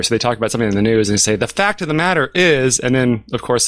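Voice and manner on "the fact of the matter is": lightly mimicking a pundit's stock phrase; pompous verbal tic. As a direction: rattle off the pet phrase. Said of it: "verbal tick".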